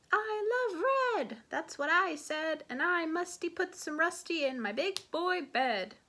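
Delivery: high-pitched, gleeful declaration; an eager kid announcing a favorite; excited little boy. Acted. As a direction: pitch leaping up with delight. Excited kitten boy declares love.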